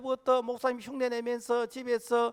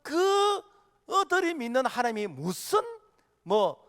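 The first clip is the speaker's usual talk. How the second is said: scornful Pharaoh; 3 semitones higher than usual. Retold or imitated. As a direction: imitate a ruler belittling someone else's god. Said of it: "하나님을 아주 비웃고 무시하는". (은근히 비웃고 무시하는 말투)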